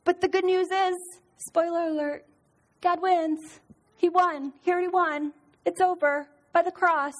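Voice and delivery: put-on cheerful teacher voice for little kids; sweet Sunday school voice. Shown as a demonstration.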